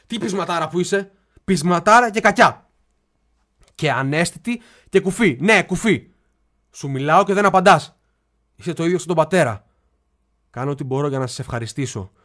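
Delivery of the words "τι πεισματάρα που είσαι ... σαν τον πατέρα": louder, scolding his stubborn sister. Acted. Brother scolding his silent sister, rising irritation. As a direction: nag her for not answering.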